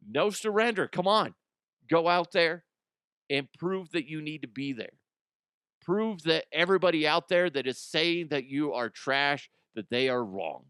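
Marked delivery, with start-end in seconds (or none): 0.1-4.9 hyped up. Real, not acted. Firing up the Broncos.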